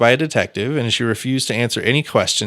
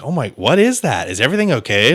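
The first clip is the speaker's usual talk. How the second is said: lightly acted call, pitch swooping up; mock concerned call up the stairs; calling upstairs; 4 semitones higher than usual. Woman downstairs calls up after gunshots, mildly raised call. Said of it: "calling up".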